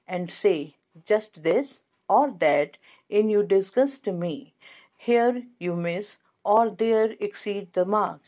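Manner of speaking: slow, measured verse reading with pauses between phrases; poem recitation. Acted. Lecturer reading a Browning example to students, slow poem recitation. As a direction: recite it line by line, unhurried.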